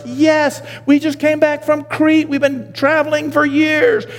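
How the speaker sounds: high, drawn-out elated holler; exultant, high-pitched cheer; jubilant crowd shout. Acted. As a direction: shout it like weary travelers finally home. Returning exiles voiced as jubilant crowd.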